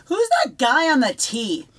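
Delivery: a hint of a small boy asking from the van's back seat; little brother. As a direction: ask it like a confused little kid. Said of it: "and he goes".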